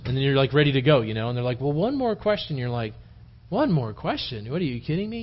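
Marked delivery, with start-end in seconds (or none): 1.6-2.6 higher-pitched, light imitation of an asker; mock pleading request. Preacher imitates congregant holding up pastor, lightly pleading. Acted member asking pastor for more. 3.5-5.2 mock incredulous. Preacher acts reluctant minister echoing the request, incredulous. Acted tired pastor reacting in disbelief.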